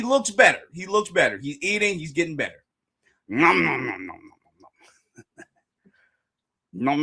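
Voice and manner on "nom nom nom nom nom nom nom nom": mock munching. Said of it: "he's talking in, uh, foodieese".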